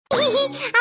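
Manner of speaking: short staged titter; little fake laugh; put-on giggle. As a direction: cover up with a small polite laugh.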